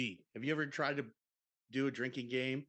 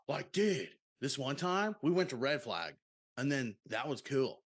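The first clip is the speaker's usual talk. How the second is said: lightly voiced bro telling a story; surfer-dude bro demo. Shown as a demonstration. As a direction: show off the dude voice. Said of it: "just do it like this".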